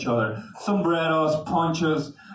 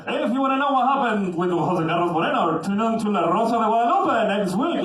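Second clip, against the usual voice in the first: announcer teaser; 4 semitones higher than usual. Retold or imitated. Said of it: "cut it like".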